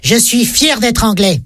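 slow, emphatic proud declaration; mildly vociferous. Acted. Englishman to Scot in a bar, proudly declaiming. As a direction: declare it slowly, without real shouting. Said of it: "vocifère l'anglais".

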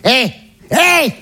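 high, brassy boast about her son; proud mother. Retold or imitated. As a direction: show off your boy like the mum. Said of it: "Je la vois qui fait".

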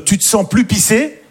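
quoted line. Retold or imitated. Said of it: "la phrase".

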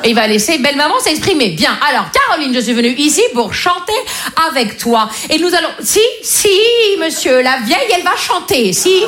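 a hint of a pompous mother, quick; lightly voiced mum taking the stage; mother announcing. Mother announces to daughter and boyfriend she'll sing, lightly voiced.

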